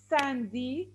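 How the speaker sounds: SANDY broken into san and dy; Sandy sounded out syllable by syllable; syllable split. Shown as a demonstration. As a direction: say Sandy in two separate beats, san, dy. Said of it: "So I have two syllables".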